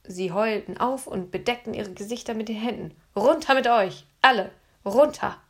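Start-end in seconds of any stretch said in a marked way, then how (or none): 3.2-5.4 loud order to get down; girl commanding the guards. A narrator's reading. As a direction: order them down like a sorceress. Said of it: "befahl Anne".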